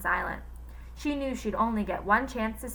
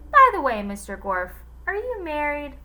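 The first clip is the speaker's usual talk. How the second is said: higher, coy asking; flirty question; 6 semitones higher, 5 dB louder than usual. A narrator's reading. Cook asking the teacher if he's married, coy. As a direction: ask it coyly. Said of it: "she said".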